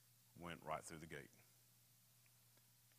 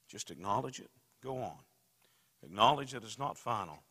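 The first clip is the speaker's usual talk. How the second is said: rising preacher's call, loud and pushing; loud urging; 3 semitones higher, 11 dB louder than usual. Real, not acted. Preacher urging the congregation, loud and forceful. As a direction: press the congregation to acknowledge it.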